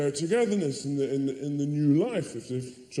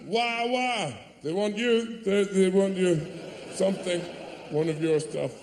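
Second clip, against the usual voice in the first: flustered man; 5 semitones higher than usual. Retold or imitated. Man startled by baby.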